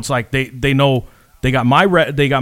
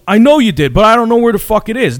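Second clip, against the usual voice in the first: mock exasperated protest; 8 semitones higher, 5 dB louder than usual. Retold argument over missing money.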